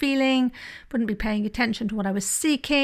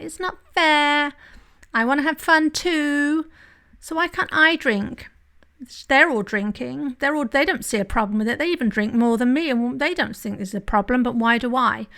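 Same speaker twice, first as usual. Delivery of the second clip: whiny voice. Retold or imitated. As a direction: whine it like a sulky kid. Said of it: "It's kind of like a whiny voice".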